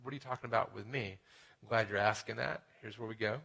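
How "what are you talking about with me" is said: imagined listener. Retold or imitated. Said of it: "you may be thinking right now".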